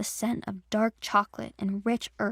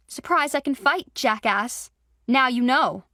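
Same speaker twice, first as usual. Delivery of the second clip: raised, defiant taunt at the wolf; louder, higher fighting taunt; taunting yell; 3 semitones higher, 5 dB louder than usual. Acted. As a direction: shout it at the beaten wolf.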